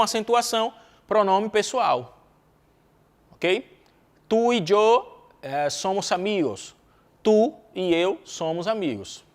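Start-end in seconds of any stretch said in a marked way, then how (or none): 4.3-6.7 slow example. Shown as a demonstration. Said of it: "example sentence, slow demo".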